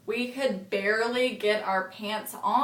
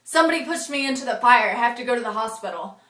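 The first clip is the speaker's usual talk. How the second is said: fast, louder at the start, tumbling out; lightly voiced frantic boy, fast; rushed; 5 dB louder, faster than usual. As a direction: blurt it out in a drunken rush. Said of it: "And he's like".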